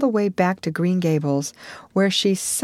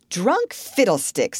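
scornful dismissal; 3 semitones higher than usual. Acted. Marilla dismissing.

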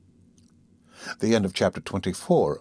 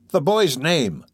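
higher-pitched, pressing question; demanding; 5 semitones higher, much slower than usual. Acted. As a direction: demand the answer. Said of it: "demanded the matron".

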